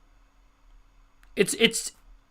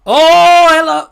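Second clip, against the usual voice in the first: surprised; 12 semitones higher, 16 dB louder, slower than usual. Real, not acted. Sudden loud greeting.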